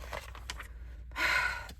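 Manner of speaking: long, breathed-out sigh; drawn-out exhale; resigned sigh. Acted. Acts out letting the worry go.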